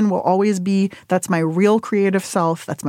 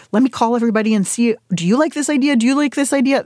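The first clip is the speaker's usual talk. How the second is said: eager needy asking; 4 semitones higher, faster than usual. Retold or imitated. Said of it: "The, like".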